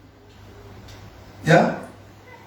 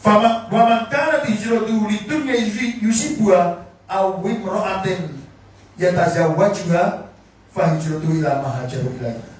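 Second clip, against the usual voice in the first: measured, chant-like Arabic; hadith recitation. Acted. (melantunkan hadis dengan khidmat)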